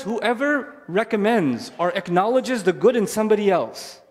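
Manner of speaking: slow, weighty rendering of the verse; measured scripture reading; solemn verse gloss. Real, not acted. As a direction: let each word of the verse land slowly. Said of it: "He says".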